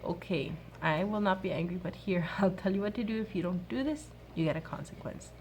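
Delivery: put-on mother calmly telling her children the consequence; calm mom voice. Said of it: "So I say it to them calmly".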